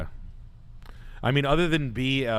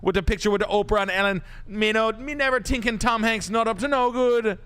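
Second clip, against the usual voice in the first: raised, higher patois voice; high mock patois rant; 8 semitones higher than usual. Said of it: "Chet Hanks impression".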